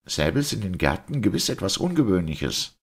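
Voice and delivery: high-pitched, puzzled doctor voice; questioning doctor. Acted. Doctor putting his first question to the priest, puzzled.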